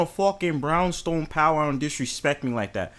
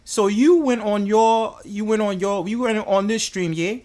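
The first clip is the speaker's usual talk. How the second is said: slow, higher mock London voice; drawn-out London telling-off; London accent; 3 semitones higher, slower than usual. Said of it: "should I speak in my London voice".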